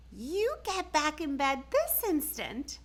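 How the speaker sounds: mother sending Camila back to bed, firmly; mother's order. A narrator's reading. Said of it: "her mother ordered".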